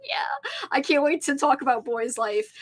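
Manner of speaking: breathy whisper of glee; whispered excitement. Retold or imitated. Vlogger recalling her excitement, whispering. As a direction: hush it like a secret thrill. Excited past self quoted.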